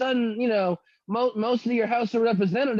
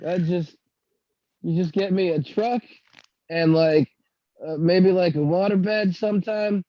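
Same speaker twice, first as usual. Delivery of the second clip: cowboy voice; 4 semitones lower than usual. Pretend. Mock cowboy, calls Doug partner.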